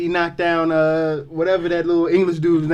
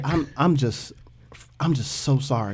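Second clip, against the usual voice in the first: white guy voice; 3 semitones lower, 9 dB quieter than usual. Pretend. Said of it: "sounded like a total, like, white guy".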